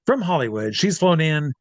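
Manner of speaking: lightly voiced club DJ introduction; DJ announcer. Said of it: "the D J says".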